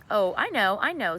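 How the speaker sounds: mother excitedly hitting on an idea. Acted. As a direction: blurt it out, suddenly delighted. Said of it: "said Missus Semicolon excitedly".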